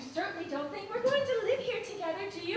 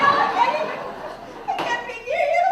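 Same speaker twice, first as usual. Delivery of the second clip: words breaking into tearful laughter; hysterical laugh-crying; 5 semitones higher, faster than usual. Acted. Wife laughing and crying as she refuses her husband. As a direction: laugh through your tears. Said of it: "you're hysterical".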